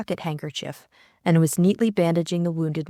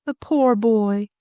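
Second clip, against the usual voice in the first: slow, higher, fussing sympathy; motherly pity; 4 semitones higher, 5 dB louder, slower than usual. A narrator's reading. Lady Coote bent over wounded Jimmy, motherly. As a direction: draw it out, motherly. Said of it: "said Lady Coote in a motherly fashion".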